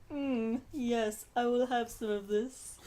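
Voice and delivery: a lightly snooty monster; a giant monster, savoring, a touch posh; kaiju voice. Pretend. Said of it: "that's my kaiju voice".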